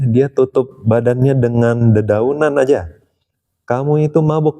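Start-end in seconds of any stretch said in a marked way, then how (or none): 3.6-4.6 mock scolding. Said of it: "marahin si perampok".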